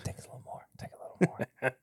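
breathy unvoiced whisper, teasing; playful whisper. Joking whisper while pouring whiskey.

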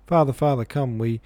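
high, loud broken cry; excited faltering. A narrator's reading. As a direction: gasp it out in excitement. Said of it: "faltered in violent excitement".

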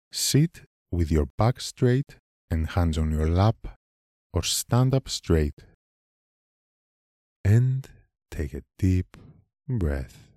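calm guiding voice with long pauses; guided meditation. Acted. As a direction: lead them gently through the breath, phrase by unhurried phrase.

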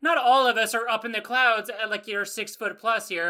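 hammed-up outrage at a tall friend; mock offended. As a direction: play up fake offense on Red's behalf. Mock offended rant at Red.

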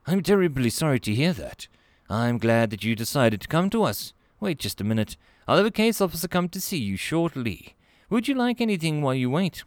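friendly receptionist Melanie. Acted. Clerk greets a nervous alien visitor, high and friendly.

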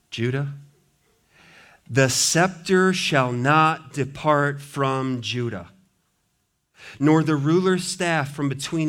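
slow, solemn reading of a blessing; solemn measured Bible reading; scripture reading. Acted. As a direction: proclaim it like an old patriarch's blessing. Reads verse ten aloud.

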